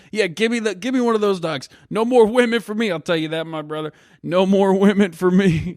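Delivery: a chatty driver spotting a dog, voice jumps up; excited driver voice. Retold or imitated. Driver spots someone walking dogs and asks eagerly in a high voice. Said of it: "then he goes".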